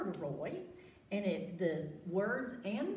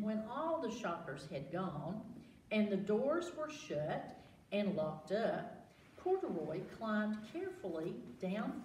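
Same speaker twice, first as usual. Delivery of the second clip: put-on reading to children. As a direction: draw the kids into the story. Reading picture book aloud.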